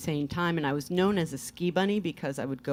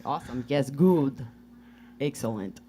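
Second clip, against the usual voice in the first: put-on Russian accent; 2 semitones lower than usual. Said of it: "Where did you learn the accent?".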